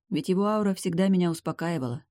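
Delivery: ordinary delivery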